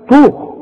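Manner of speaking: طوخ with a full emphatic ta; tajweed emphatic ta; heavy ta. Shown as a demonstration. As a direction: darken the ta in طوخ. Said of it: "الطاء مفخمة".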